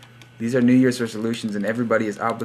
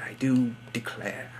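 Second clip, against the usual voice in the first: mock Southern accent; 6 dB quieter than usual. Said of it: "Why am I speaking in crazy accents?".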